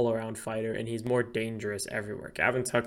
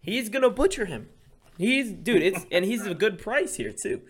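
much higher, louder hyped yell; fired up shout; 9 semitones higher, 5 dB louder than usual. Real, not acted. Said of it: "Teddy got all fired up".

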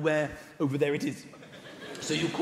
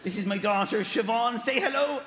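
put-on Irish father presenting his child; Irish accent; 3 semitones higher than usual. Irish father introducing his daughter, Irish accent. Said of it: "You don't meet people in Ireland going".

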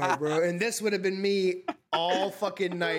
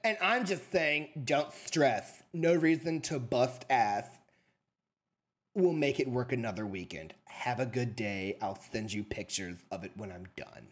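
lower, slow, softer imitation of her shrugging it off; mock breezy dismissal; 10 semitones lower, 4 dB quieter, slower than usual. Mimics girlfriend's last text as a breezy brush-off. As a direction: drawl it out, faking calm unconcern. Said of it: "She said".

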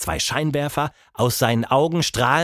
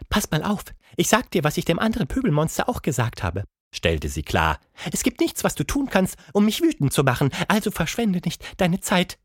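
much higher grumpy ape lady; a cranky ape, higher pitched; 8 semitones higher than usual. Acted. Plappi the ape voiced.

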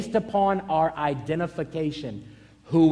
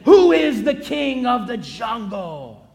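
lion's demand; 3 semitones higher, 5 dB louder, slower than usual. Acted. Lion demanding of the bear.

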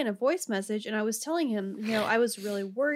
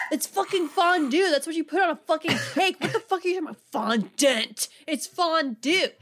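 loud, higher mock outrage; exasperated retold correction, pitched up; imitated indignant rant; 6 semitones higher, 5 dB louder than usual. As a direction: imitate a friend insisting he's right. Retells friend's indignant voice message.

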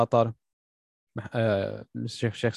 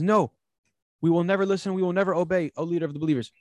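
angry defiance; 7 semitones higher, faster than usual. Retold or imitated. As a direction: fling the refusal back at the leader. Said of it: "Like, he's mad".

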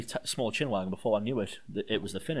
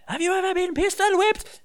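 mock tough-guy taunt; 9 dB louder than usual. Retelling wrestler's taunt in voice.

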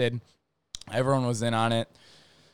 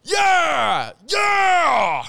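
much higher, loud cheering yeah; triumphant shout; 6 dB louder than usual. Retold or imitated. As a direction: crow victory like a proud jock. Kid triumphantly brings bear back.

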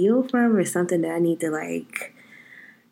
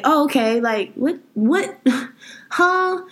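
mock shocked reaction; 6 semitones higher, slower than usual. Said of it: "it's like".

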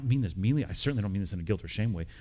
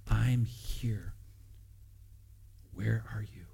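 soft, spaced-out near-whisper; hushed divine question; 4 dB quieter, much slower than usual. Acted. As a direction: ask it gently, leaving room for silence. Prayer voices God's gentle question.

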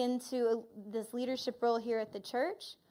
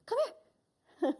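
laughing invitation; 10 semitones higher than usual. Retold or imitated. Jesus coaxing her into the yoke.

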